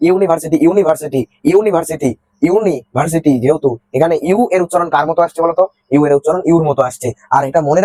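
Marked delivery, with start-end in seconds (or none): 0.1-3.3 ইউনিভার্সিটি with an opening "yu" sound; pronunciation demo. Shown as a demonstration. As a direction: repeat ইউনিভার্সিটি, leaning on its initial "yu". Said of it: "দেখো এটা কেমন উচ্চারণ হচ্ছে".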